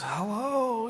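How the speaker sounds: mock high hello. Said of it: "I get this".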